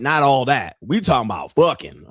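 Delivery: usual speaking voice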